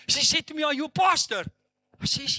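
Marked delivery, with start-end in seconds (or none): 0.6-1.4 put-on higher-pitched child's challenge; imitated little girl. Small daughter questions her pastor father, imitated higher voice. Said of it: "five or six year old little girl".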